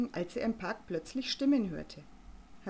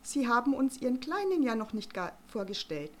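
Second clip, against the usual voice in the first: loud, high, trumpeting matron; blaring; 6 semitones higher, 3 dB louder than usual. Acted. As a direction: belt it out across the path. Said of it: "schmetterte Frau Kloß". (schmetternde, laute, hohe Matronenstimme)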